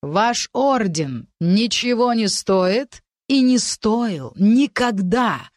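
slow, hissed contempt, dragged out; slow venomous hiss at the order. Acted. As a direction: hiss it slowly, full of scorn. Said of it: "прошипел Адриан".

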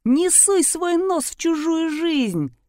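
high, slow ranting yell; furious shout; screaming. A narrator's reading. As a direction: scream at the intruder. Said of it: "вопил мужчина".

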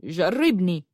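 understated bold dare; daring. A narrator's reading. Yusuf answering al-Barq's threat, daringly. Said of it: "قال بنبرة متجاسرة".

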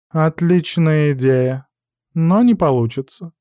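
slow, smug cat voice; snooty bored cat. Acted. Cat interrupts his master. (самодовольный кот)

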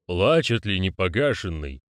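slow, solemn question; ritual questioner. Acted. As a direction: ask it slowly and ceremonially. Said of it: "спросил голос".

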